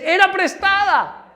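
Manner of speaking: high, drawn-out acted cry; cried out. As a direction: wail it, stretching the words. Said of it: "gritó diciendo".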